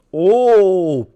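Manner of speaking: loud, high exclamation; surprised oh. Real, not acted. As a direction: react as the chance flashes by. Reacting to a chance.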